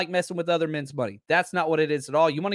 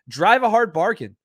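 "Drive a hard bargain" punched out louder, stress on hard; emphatic; 3 semitones higher, 6 dB louder than usual. Acted. Host answers a chatter's leverage point with a louder emphatic line. Mock praise of caller's leverage.

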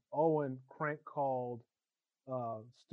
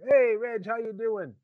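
higher, louder friendly hello; cheery phone greeting; 7 semitones higher, 7 dB louder than usual. Retold or imitated. Stu answers the phone cheerfully.

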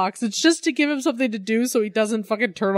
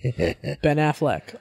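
dramatic reveal; 4 semitones lower, much slower than usual. Acted. Dramatic reveal of hated thing.

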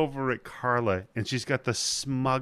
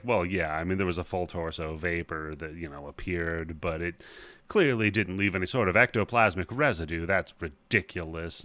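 nerdy ghost hunter; 6 semitones lower than usual. Retold or imitated.

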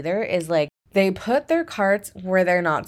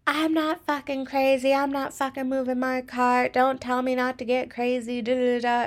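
mock agitated rant, pitched higher; imitating a customer losing it, voice up high; agitated and crazy; 7 semitones higher than usual. Customer snapping at coworker over cart, imitated agitated rant. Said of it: "She got so agitated and crazy".

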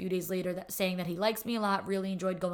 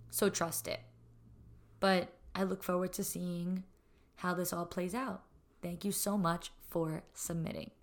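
raspy voice. Real, not acted. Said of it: "I'm really sorry about my raspy voice".

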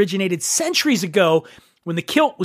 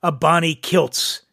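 poem recitation. Acted. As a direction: recite it with mock gravity, line by line. Reads a Service poem.

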